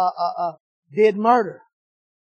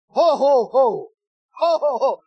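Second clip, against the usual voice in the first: giant's laugh. Retold or imitated. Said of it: "He sound like the Jolly Green Giant".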